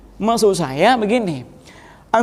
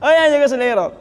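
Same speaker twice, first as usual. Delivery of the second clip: laughing; 3 semitones higher, faster than usual. Real, not acted. Teacher laughs at student's mistakes.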